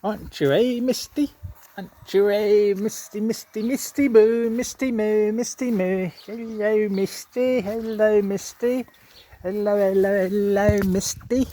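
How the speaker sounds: sing-song cooing to a pet; pet talk. Real, not acted. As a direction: croon her name over and over.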